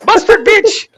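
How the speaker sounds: put-on very high, loud shrieking with South Asian accent, laughing. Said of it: "literally India and Pakistan's entire history".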